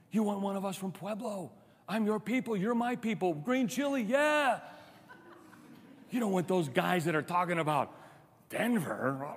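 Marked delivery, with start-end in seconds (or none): 0.1-7.6 coaxing conspirator. Pretend. Abimelech persuading his hometown clan.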